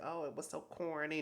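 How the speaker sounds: high-pitched mock complaint; mocking critics. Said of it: "people were probably gonna be like".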